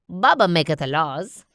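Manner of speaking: a light minion proclamation; minion declaration. Acted. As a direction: announce it proudly. Bob decides.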